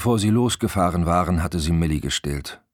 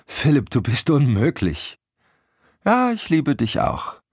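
high, playful affection; amused banter; 10 semitones higher, 3 dB louder than usual. A narrator's reading. Couple joking together in the car, amused. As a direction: tease lightly, as if near laughter. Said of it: "Er stimmte in ihr Lachen ein".

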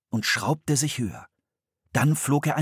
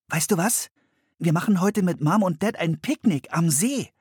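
bright, much higher little-sister voice; Anne's voice; 9 semitones higher than usual. A narrator's reading. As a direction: greet her brother cheerfully. Anne erzählt vom Picknick. (hohe Mädchenstimme, fröhlich)

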